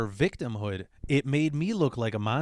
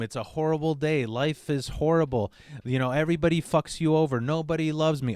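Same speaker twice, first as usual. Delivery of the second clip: mild mopey mother, a bit higher; doom and gloom; 4 semitones higher than usual. Retold or imitated. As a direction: whine it like a self-pitying mother. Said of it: "doom and gloom".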